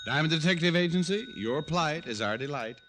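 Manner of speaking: high, breezy answer of the phone; jaunty phone greeting. Acted. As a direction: sell the agency name with a grin.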